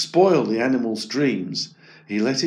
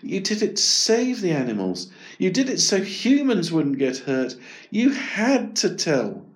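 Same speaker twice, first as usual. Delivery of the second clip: self-reassurance; 7 semitones higher than usual. Acted. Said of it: "Eric told himself".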